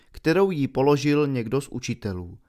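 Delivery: ordinary delivery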